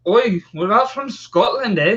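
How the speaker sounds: a quick jokey Scottish "oi"; mock Scottish accent. To the chat, teasing in a Scottish accent. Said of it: "Someone said I did a pretty good accent".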